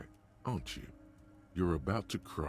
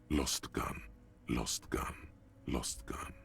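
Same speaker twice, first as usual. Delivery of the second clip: fading echo; 5 semitones lower, slower than usual. Acted. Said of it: "all you hear is an echo".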